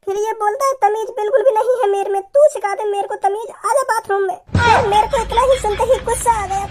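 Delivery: put-on tattle like a hurt girl; girl telling tales. Girl continues her complaint.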